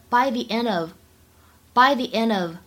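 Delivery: "by the end of" with "end of" joined; "the" as "thee", d of "end" carried into "of"; linked sounds. Shown as a demonstration. Teacher modelling "by the end of" for learners, linked. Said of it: "它跟of可以做连读".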